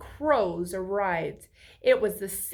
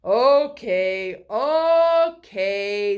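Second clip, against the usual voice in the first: louder, grumbling sleepy okays; a lightly voiced groggy tree; tired voice; 9 dB louder, much slower than usual. A narrator's reading. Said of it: "said Purple with his tired voice".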